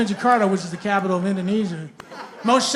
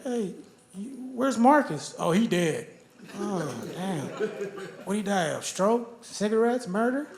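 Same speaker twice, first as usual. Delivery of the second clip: quiet gossip; 6 dB quieter than usual. Retold or imitated. Acted dialogue about Marcus.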